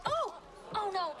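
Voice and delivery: high, loud, fast alarm; startled panic. Acted. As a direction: react to the spill in panic. Spilled wine on chair.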